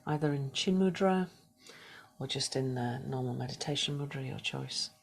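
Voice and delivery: soft, unhurried meditation guidance with whispered cues; guided meditation. Acted. Yoga teacher guiding the class through a body scan, soft meditation voice. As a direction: ease the class into stillness, gently.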